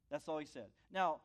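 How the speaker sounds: normal talking voice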